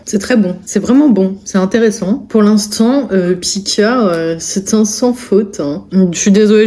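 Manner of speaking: talking with a mouth full; chewing while speaking. Real, not acted. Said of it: "je vais vous parler la bouche pleine".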